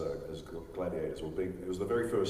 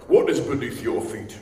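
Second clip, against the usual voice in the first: loud, slow, booming gladiator trainer voice; imitating Peter Mensah's line; 4 semitones higher, 14 dB louder, slower than usual. Auditioning for Anameus, booming the line slowly. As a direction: boom it out slowly like a stern arena master. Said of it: "Peter Mensah does that line so much better".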